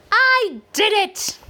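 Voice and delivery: high, loud victory cry; triumphant shout. Acted. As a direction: cheer it out in triumph. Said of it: "Pat shouts".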